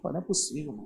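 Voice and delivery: muttering. Retold or imitated. Son grumbling at father's request.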